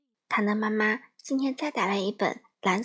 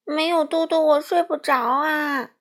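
put-on a worried little girl, high and loud; pleading child who can't sleep without her toy; anxious; 5 semitones higher, 6 dB louder than usual. A narrator's reading. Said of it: "她着急地说个不停". (着急的小女孩)

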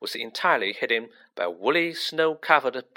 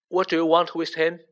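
quivering voice; 5 semitones higher, 4 dB louder than usual. A narrator's reading. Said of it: "in a quivering voice".

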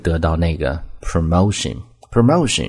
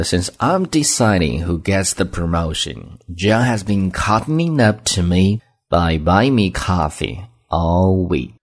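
slow example reading; slower than usual. Shown as a demonstration. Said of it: "这个例句我们再读一次".

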